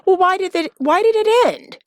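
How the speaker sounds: lightly voiced woman on a first date; curious date question. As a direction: ask it like you're digging for the real story. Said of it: "that magical question".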